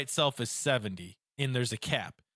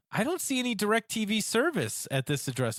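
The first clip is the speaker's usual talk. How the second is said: higher-pitched imitation of a customer service lady; phone agent; 6 semitones higher than usual. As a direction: lightly mimic a puzzled call-centre agent.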